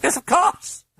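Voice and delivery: very high, loud amused voice; high laughing sarcasm; amused cackle. Acted. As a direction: sneer with a cackle. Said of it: "with a cackle of amusement".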